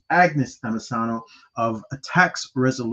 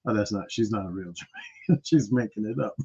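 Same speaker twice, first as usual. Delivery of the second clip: mock Jamaican listener; 5 semitones lower, 8 dB quieter than usual. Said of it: "Any Jamaican who listens to her".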